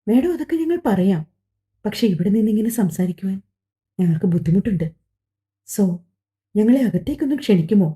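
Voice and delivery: courteous, gently persuasive asking; polite request. Acted. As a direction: ask them in politely, as a favour. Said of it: "Vaisakhan വിനയത്തോടെയാണ് ചോദിച്ചത്". (വിനയത്തോടെ ചോദിക്കുന്നു)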